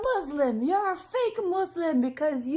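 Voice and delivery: high mock outrage from a commenter; sneering parody of a triggered viewer; mocking angry commenter. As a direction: whine it like a scolding troll. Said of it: "people would have been triggered".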